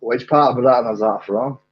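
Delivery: a lightly put-on Glaswegian accent; attempted Glaswegian. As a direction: ask it in rough Glaswegian. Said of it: "that was hopefully Glaswegian".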